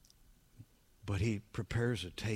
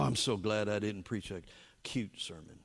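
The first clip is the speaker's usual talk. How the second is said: usual speaking voice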